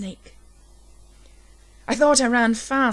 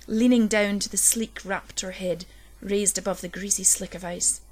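usual speaking voice

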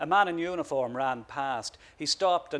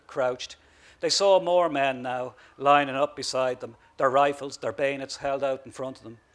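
ordinary delivery, nothing marked

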